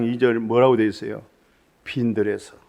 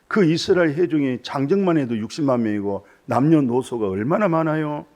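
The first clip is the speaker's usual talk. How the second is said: normal talking voice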